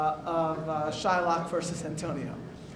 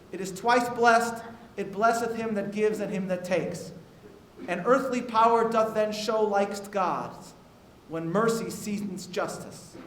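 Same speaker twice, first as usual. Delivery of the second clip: measured, declaiming the famous speech; reading Portia's mercy speech aloud to the Chief Rabbi, declaimed; Shakespeare recitation. Acted. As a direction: recite it like verse on a stage. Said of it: "I apologize for the lack of a British accent".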